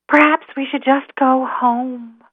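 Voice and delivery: high, slow little squirrel; timid squirrel. Acted. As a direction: suggest it hesitantly, drawn out. Squirrel voiced, giving up.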